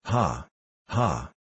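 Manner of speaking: low laugh at his own joke; gloating "ha ha"; king's laugh. A narrator's reading. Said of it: "this was seriously meant for a joke".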